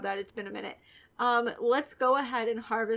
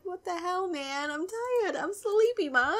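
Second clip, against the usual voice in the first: higher whiny voice for the tired sim; voicing the sim; 8 semitones higher than usual. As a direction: whine it like a sleepy kid to his mom. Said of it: "He's like".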